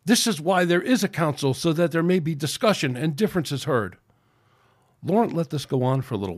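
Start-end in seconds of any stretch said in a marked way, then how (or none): 0.0-4.0 raised protest. Acted. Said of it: "cried Sanshu".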